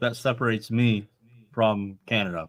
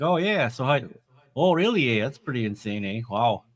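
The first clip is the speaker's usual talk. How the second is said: Wisconsin accent demo. Shown as a demonstration. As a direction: slip into the Wisconsin accent you grew up with. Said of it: "it just comes out of me".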